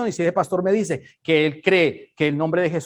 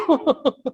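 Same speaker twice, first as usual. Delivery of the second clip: mock sob; 9 semitones higher than usual. Mock crying after worship.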